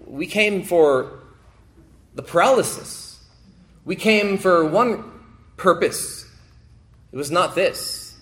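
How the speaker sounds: mild mock complaint of the friends; imagined protest.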